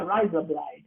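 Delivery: Australian accent. Shown as a demonstration. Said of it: "It's how an Australian would say".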